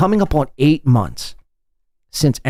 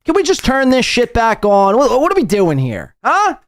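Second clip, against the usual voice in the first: mocking whiny voice; 9 semitones higher than usual. Mocking Aaron's request, high voice.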